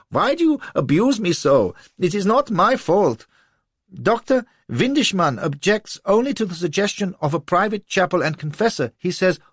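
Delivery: high, loud desperate pleading; near tears. A narrator's reading. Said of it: "on the verge of tears".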